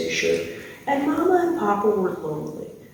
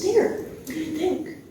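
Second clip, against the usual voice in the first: high, drawn-out hopeful question; hopeful presenting; 8 semitones higher than usual. Acted. Taxidermist showing the owners his work, high and hopeful. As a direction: present your handiwork slowly in a raised voice.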